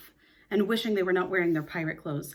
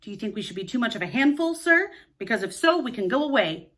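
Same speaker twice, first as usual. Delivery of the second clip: a touch of wounded pride, quickened; proud flushing question; 3 semitones higher, 5 dB louder than usual. Acted. Proud twin to Mister Darling, quick and hurt. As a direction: ask it fast and stiffly proud. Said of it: "and he asked, flushing".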